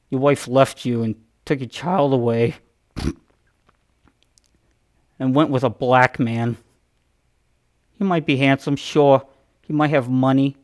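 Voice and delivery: a light mock intro-host voice, posing dramatic questions; lightly voiced awkward comic creator; Todd McFarlane impression. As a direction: play the awkward creator hosting his own intro. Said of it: "that's exactly how he talks".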